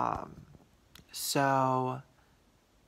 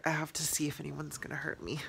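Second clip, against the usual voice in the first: whisper; 2 semitones higher, 5 dB quieter, faster than usual. Acted. Jokingly alert for intruders.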